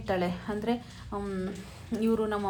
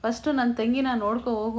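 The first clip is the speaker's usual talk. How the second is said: scolding; 2 semitones higher, 5 dB louder than usual. Retold or imitated. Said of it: "ಅಂತ ಬೈದ್ಬಿಡ್ತಾನೆ".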